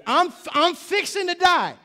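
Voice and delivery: slow, high Mississippi "fixing to die"; Mississippi drawl. Retold or imitated. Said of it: "Welcome to Mississippi".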